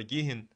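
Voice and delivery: گیهین, h sounded mid-word. Shown as a demonstration. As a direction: say گیهین with an audible h between vowels.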